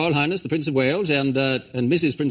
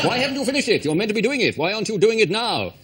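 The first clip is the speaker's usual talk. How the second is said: higher royal scolding; mock Prince Charles; 5 semitones higher than usual. Prince Charles dubbed nagging builders to finish, higher. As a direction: badger the workmen like a fussy royal.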